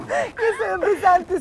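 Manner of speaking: slow loud whine; loud drawn-out complaint. Acted. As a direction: stretch it out loudly.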